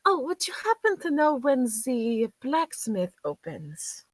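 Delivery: a hint of a refined lady; politely asks the shopkeeper; lightly voiced lady. Lady asks shopkeeper about blacksmith, lightly voiced refined lady. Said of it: "and she's like".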